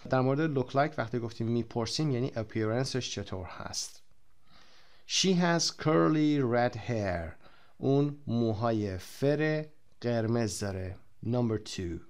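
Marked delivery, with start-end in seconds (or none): 5.1-7.3 slow model reading. Shown as a demonstration. Teacher models book sentence slowly.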